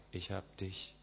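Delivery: soft, hushed words into an ear; a tender whisper of love. Acted. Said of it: "und flüstert".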